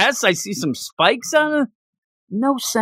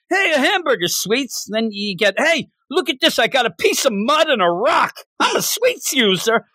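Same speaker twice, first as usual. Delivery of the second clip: goofy raised voice; mock dopey character; 5 semitones higher than usual. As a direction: show off a rock like a proud kid. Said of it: "next you're gonna have, you know, him".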